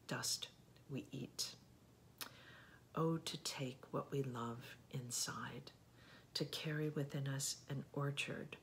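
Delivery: slow, measured poetry recital; unhurried verse with deliberate breaks between phrases; poem reading. Acted. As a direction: read it line by line, lingering on the pauses. Reads a poem aloud.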